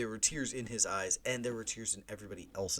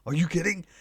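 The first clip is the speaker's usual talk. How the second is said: higher, louder mock shock; retold disbelief; 8 semitones higher, 10 dB louder than usual. Hearing the fake winner from his dad, mock shocked. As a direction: replay the gasp of being fooled. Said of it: "I was like".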